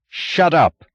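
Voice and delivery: high, loud scream. A narrator's reading. Taggart silencing Lawson with a loud scream. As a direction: scream it to cut them off. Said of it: "screamed James Taggart".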